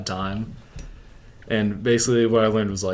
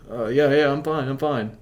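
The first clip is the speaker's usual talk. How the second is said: higher, hurried-sounding self-defence; nervous reassurance; 5 semitones higher, 3 dB louder than usual. Retold or imitated. Tripping guy to the cops, nervously covering up. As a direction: insist it's all okay, imitating your panicked self.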